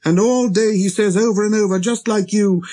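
put-on high, indignant child-prince tirade; little prince, angry. A narrator's reading. Little prince denouncing the red-faced gentleman to the pilot, angry. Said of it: "He really was very angry".

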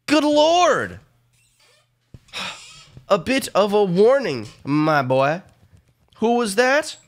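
lightly hammed British accent; different accent. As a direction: put on a stuffy British accent. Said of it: "I slipped into a different accent".

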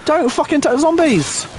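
high, drawn-out order; exasperated yell. Real, not acted. Player begging teammates not to touch zombies, exasperated yell. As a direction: scold them in a high, stretched-out wail.

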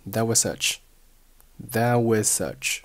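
"was such" with one s, no z; merged s. Shown as a demonstration. Teacher shows linking, "was such" sharing one s. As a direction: run "was" into "such" as wuh-such. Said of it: "咱们只保留后面的s就好了".

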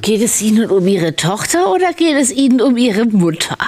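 stern demand. Acted. Judge presses the witness.

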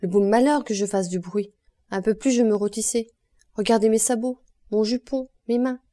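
loud aggrieved complaint; loud, rising indignation; indignant protest. Acted. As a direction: protest loudly, showing her clothes. Honorine protests, scorched and upset.

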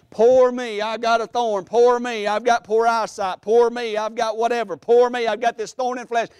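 lightly acted poor-me complaint; mock self-pity. Preacher mimicking what Paul is not saying, mock self-pity. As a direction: chant each complaint, punching every "poor me". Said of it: "he's not saying".

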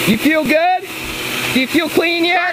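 taunting yell over hose; mocking shout. Real, not acted. Taunting while spraying.

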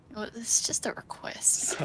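whispering. Shown as a demonstration. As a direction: breathe it out as a whisper. Whispered repeat of the line.

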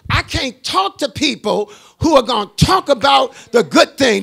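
loud, punched preacher's delivery; forceful preaching. Acted. Preacher refusing toxic talk about his blessing, forceful punched preaching. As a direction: hammer out each phrase to the congregation.

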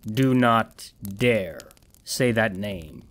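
very slow, measured warning; slow menacing threat. Acted. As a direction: drag each word out as a threat. Man threatens the demon slowly.

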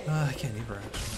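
Cockney accent, either as ivver. Real, not acted. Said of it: "a really thick Cockney accent sometimes".

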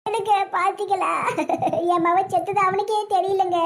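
drawn-out sobbing lament; wail, then dissolve into sobs; tearful wail. Acted. Mother mourns son's unwitting ghost.

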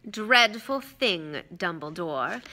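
slow, languid regret; lazily drawn-out mock sympathy; Malfoy, lazy. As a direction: stretch it out idly. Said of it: "said Malfoy lazily".

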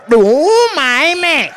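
very high, excited mock Asian dealer accent; hammed-up Asian dealer, squealed high; happy Asian dealer. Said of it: "I perfected that voice".

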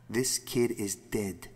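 low, slow, hushed realisation; stunned horror. Acted. Wife realises the child is dead, stunned. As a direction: drop the pitch and slow right down, stunned.

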